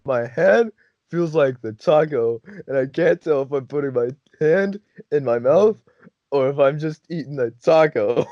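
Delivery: imitated stoned friend, earnestly puzzled; stoned bafflement. Stoned friend explains confusion.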